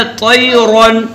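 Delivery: "तैरन" chanted slowly with heavy emphatic t and r; full, heavy ra. Shown as a demonstration. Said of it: "तो कैसे पढ़ेंगे?". ("तैरन" में रा पुर करके तिलावत)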